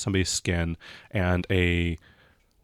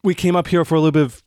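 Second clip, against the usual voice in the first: lightly acted shaken girl, higher and louder; halting, stammered account of a horror, mildly acted; shaken witness; 4 semitones higher, 4 dB louder than usual.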